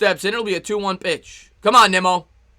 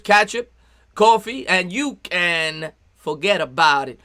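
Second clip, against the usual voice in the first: New York accent; 2 semitones lower, slower than usual. Shown as a demonstration. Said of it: "Benjamin wants to hear the New York accent".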